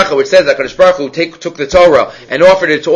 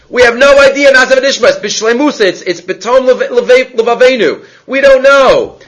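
fervent acceptance; 6 semitones higher than usual. Retold or imitated. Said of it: "Israel's wholehearted acceptance".

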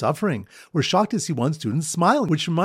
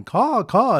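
higher mimicked double caw; bird caller's caw; 7 semitones higher, 4 dB louder than usual. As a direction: imitate the bird callers with two high caws. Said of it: "bird callers weeping and going".

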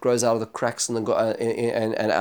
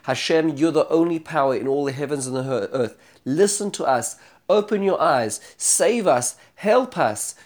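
fervent prayer; 2 semitones higher than usual. Acted. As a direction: beg for rescue with growing urgency. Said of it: "he prays fervently".

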